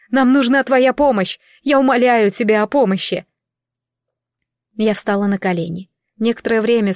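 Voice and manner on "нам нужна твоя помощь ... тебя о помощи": громкая мольба. Acted. Умоляет, зовёт в лесу.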